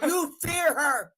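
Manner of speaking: 1 trash talk shout. Real, not acted.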